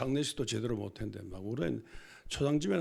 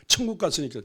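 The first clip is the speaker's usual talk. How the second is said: scornful quote; 4 semitones higher, 7 dB louder than usual. Retold or imitated. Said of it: "지가 어떻게 알아".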